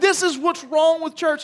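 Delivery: high, laughing exasperation; laughing exclamation. Retold or imitated. Father laughing at the note, exasperated. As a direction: laugh it out in disbelief.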